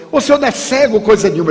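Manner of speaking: you're no blind man at all; accusing stranger. Retold or imitated. Stranger accuses him of faking. (estranho acusa, bem mais agudo e indignado)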